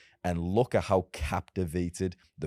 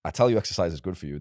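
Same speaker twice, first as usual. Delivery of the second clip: louder and fast, no hedging; forceful conviction; 3 dB louder, faster than usual. Shown as a demonstration. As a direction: push it hard like an order. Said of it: "it's boring".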